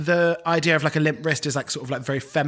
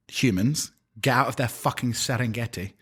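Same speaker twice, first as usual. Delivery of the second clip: put-on Scottish accent; 4 semitones lower than usual. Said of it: "Scottish accent".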